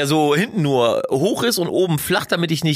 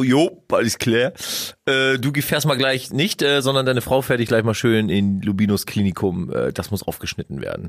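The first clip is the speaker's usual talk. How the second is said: lightly voiced doctor; 4 semitones lower than usual. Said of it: "dann eher so".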